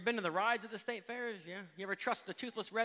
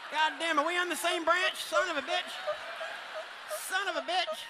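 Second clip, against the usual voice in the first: mock redneck outrage; 8 semitones higher than usual.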